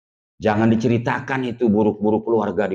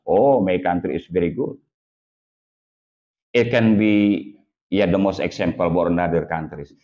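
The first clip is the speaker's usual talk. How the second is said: proud boast; 4 semitones lower than usual. Retold or imitated. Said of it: "dia ceritakan yang baik-baik".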